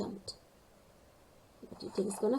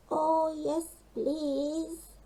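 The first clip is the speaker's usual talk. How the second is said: high, eager little penguin; grateful cry for help; eager call; 7 semitones higher, much slower than usual. Acted. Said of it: "called Gasper".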